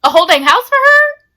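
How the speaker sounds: squealing a whole dang house for her in disbelief; exasperated emphasis. Retold or imitated. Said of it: "repeats phrase for emphasis".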